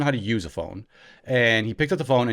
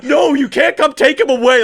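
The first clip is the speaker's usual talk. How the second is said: high, loud, hammed-up alarm; Dan's phone act; 10 semitones higher, 8 dB louder than usual. Brother faking a call with police to scare his little brother, hammed-up. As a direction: mock-desperate protest, pitched up and projected. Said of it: "Really putting on an act here".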